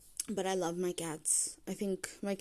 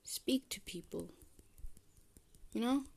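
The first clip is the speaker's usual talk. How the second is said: whispering; 3 semitones higher, 3 dB quieter than usual. Real, not acted. Whispered advice.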